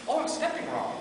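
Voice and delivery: laughing realization. Retold or imitated.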